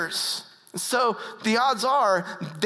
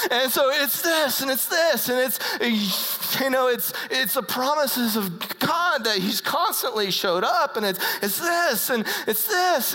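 choked up with emotion, pushing through the words; crying while preaching; 5 semitones higher than usual. Real, not acted. Preacher moved to tears by God's promises, voice breaking. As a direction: voice breaking, pitched higher with tears. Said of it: "I don't know why I'm crying".

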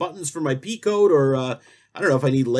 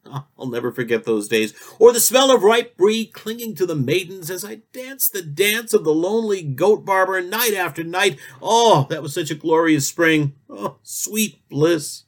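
wistful reminiscing. Acted. Host's absurd nostalgic reverie.

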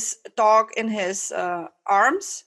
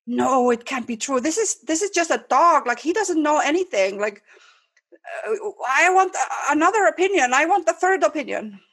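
higher, insistent disbelief; protesting owner; 5 semitones higher than usual. Acted. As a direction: push back, demanding more.

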